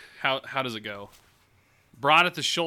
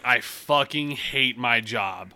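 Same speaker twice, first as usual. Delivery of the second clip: blunt deadpan; 6 dB louder, much slower than usual. Retold or imitated. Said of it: "I was like".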